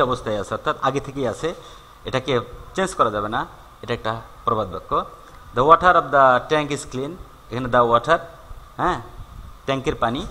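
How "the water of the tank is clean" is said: slow, deliberate reading of the example. Shown as a demonstration. Teacher reading an example to students, slowly. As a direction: spell it out slowly for the class. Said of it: "teacher reads example slowly".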